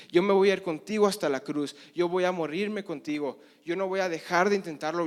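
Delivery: a cocky disciple promising everything; boastful vow. Acted. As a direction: swear you'll never fail him, chest out. Pedro boasting his loyalty.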